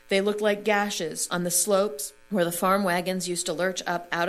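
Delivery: measured reading aloud from a novel; composed storytelling with sustained phrases; literary reading. Acted. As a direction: read the passage in deliberate phrases, pausing between them. Reads a novel passage aloud.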